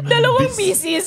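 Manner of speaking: high laughing "Dalawang pieces"; laughing repeat. Real, not acted. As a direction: giggle through "Dalawang pieces" in disbelief. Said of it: "ano pang pieces". (tumatawa habang inuulit ang "Dalawang pieces")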